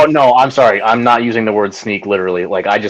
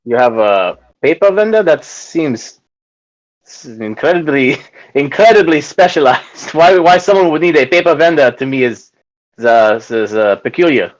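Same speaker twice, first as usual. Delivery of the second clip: put-on French accent.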